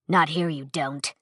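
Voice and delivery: slow low veteran's warning. Acted. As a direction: let it sink in slowly. Narrator voices Nale.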